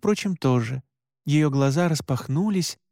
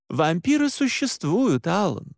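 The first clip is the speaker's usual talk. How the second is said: higher-pitched, earnest woman's voice; lightly voiced Mora, insistent; 5 semitones higher than usual. Mora convincing shaken Alan, earnest and higher. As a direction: explain firmly in a raised pitch.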